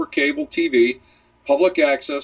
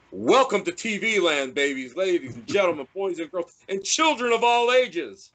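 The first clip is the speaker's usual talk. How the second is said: grand showman announcing the big top; circus ringmaster; 5 semitones higher than usual. Pretend. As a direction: boom it out like a ringmaster welcoming the crowd. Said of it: "I was channeling the spirit".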